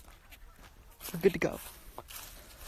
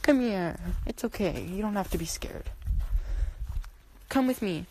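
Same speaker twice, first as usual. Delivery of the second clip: higher, gentle coaxing to a pet; 3 semitones higher than usual. Real, not acted. Owner coaxing her scared cat inside, gentle and higher. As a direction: soothe a frightened animal toward you.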